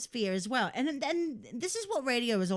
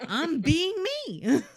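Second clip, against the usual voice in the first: loud, high, slow laughing words; 8 semitones higher, 7 dB louder, slower than usual. Real, not acted. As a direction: say it through laughter. Laughing with cohost.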